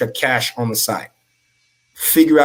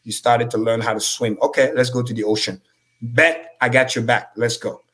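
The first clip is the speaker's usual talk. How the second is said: reassuring inner voice. Retold or imitated. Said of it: "Say, like".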